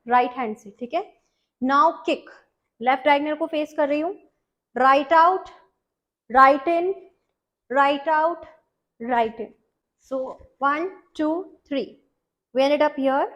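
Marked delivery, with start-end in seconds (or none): 4.8-9.5 called-out dance counts, much louder; loud step calls. Shown as a demonstration. Dance teacher calling kicks to her class, loud. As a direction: call each step out over the music. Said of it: "calls steps loudly".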